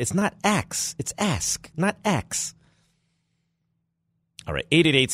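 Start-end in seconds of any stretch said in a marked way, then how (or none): 0.0-2.5 a lightly done Bronx dad correcting; Bronx accent. Retold or imitated. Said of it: "In his Bronx accent".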